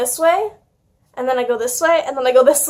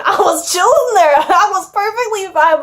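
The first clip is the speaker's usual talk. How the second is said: laughing; 7 semitones higher, 3 dB louder than usual. Real, not acted. Laughing at her own story.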